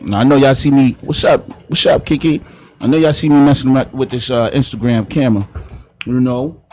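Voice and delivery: talking while chewing gum. Real, not acted. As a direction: chew gum while you talk. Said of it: "I got the gum in my mouth".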